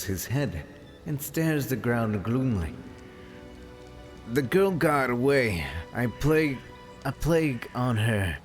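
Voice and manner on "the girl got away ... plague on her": sputtering foiled villain. Acted. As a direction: spit the curse out, furious. Bandit chief curses loudly.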